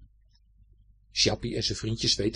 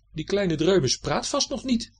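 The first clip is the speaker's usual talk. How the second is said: higher, slow musing; salamander thinking aloud; 8 semitones higher than usual. A narrator's reading. Chappie musing about the tiny fish, high slow thought. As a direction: ponder it to himself. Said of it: "denkt Chappie".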